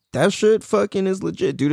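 ordinary talk

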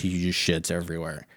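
normal talking voice

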